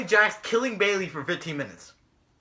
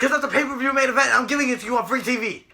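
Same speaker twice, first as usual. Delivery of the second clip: fast, higher mock shouting; hammed-up, rushed announcement; Mick Foley; 4 semitones higher, faster than usual. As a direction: imitate an impassioned boss rattling off a proclamation. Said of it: "so he starts screaming".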